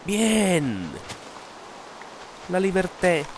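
excited exclaim. Acted. Exclaims after escaping.

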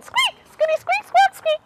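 very high squeaky chatter; tiny high mother-mouse squeaks; Mama Mouse squeaking. Acted. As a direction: give orders in mouse language. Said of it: "So Mama Mouse said".

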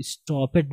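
"stopped" in two syllables, stop-ped; wrong pronunciation. Shown as a demonstration. Teacher rejects this reading, "stopped" as stop-ped. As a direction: misread "stopped" with a sounded -ed. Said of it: "stopped नहीं होगा".

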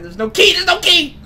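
rising panic. Real, not acted. Gamer yelling at his friend that there is no key, panicked. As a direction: yell it, building alarm.

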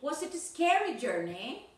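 "scary" stressed, rising at the end of "journey"; model intonation. Shown as a demonstration. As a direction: copy a textbook question, lifting "journey" at the close. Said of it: "copy the stress and intonation".

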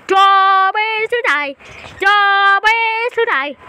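slow, put-on machine voice; robot voice. Kid voicing his robot's grim duty, slow put-on voice. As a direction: say it like a doomed little robot.

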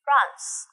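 France said again, falling, for repetition; model pronunciation. Shown as a demonstration. Teacher repeats France for the class to echo. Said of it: "đọc theo cô nhá".

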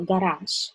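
devoiced final sound in "garage", like sh; "garage" ending in sh. Shown as a demonstration. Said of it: "We pronounce it with sh".

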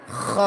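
খ as a heavy throat rasp with a rounded o; thick kho. Shown as a demonstration. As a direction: scrape the throat, then a full খ. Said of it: "খ হরফটা মোটা হবে". (খ মোটা করে)

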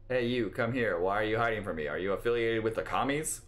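lightly voiced interrogating instructor; imitation of instructor. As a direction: lightly play a suspicious military instructor. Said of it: "that was a perfect imitation".

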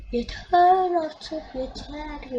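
slow, loud fed-up groan; exasperated, stretched-out yell; exasperated shout. Real, not acted. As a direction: drag it out, sick of it all. Fed up with conceding goals.

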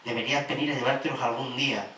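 measured spoken-word reading of a love poem; deliberate poetry delivery, swelling and easing; poem recital. Acted. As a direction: recite to a lost lover, phrase by phrase. Recites a poem to lost lover.

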